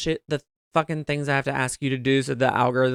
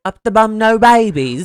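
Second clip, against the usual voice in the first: movie quote; 5 semitones higher, 10 dB louder than usual. Retold or imitated. Quoting a movie line.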